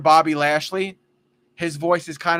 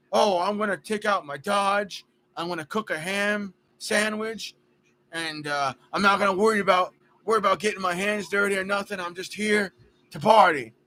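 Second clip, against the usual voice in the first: a lightly voiced good-ol'-boy party guy, higher and quick; imagined Jeff McNeil voice; 3 semitones higher than usual. Imagining how Jeff McNeil might talk, lightly put-on party-guy voice. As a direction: toss off a carefree tough-guy ramble. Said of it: "he talked like, you know".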